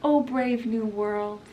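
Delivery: lightly acted dreamy recital; a touch of wonder; faraway musing. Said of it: "He just kinda looks off".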